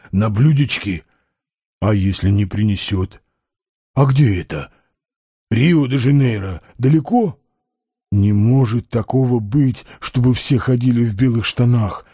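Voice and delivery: low, creaky character voice. A narrator's reading. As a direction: question it doubtfully in a low creak. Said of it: "спросил вдруг Балаганов скрипучим голосом". (низкий скрипучий голос)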